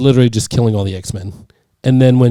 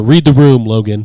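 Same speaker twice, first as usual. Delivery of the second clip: read the room; 6 dB louder than usual. Retold or imitated. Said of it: "his exact words were".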